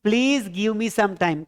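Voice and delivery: very slow, word by word, for the class; slow model sentence. Shown as a demonstration. Teacher dictating an English sentence to students, very slowly. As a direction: spell each English word out slowly for learners. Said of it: "क्या बोलेंगे?".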